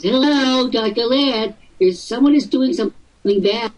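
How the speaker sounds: lightly mocking tattletale voice; hint of a tattling kid calling the boss; telltale child. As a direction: whine like a second-grade telltale. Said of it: "like little second grade telltales".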